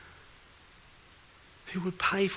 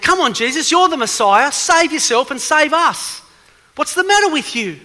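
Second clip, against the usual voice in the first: high, loud jeering shout at Jesus; retold mocking yell; 8 semitones higher, 14 dB louder than usual. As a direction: yell it up at him, taunting. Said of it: "is yelling out".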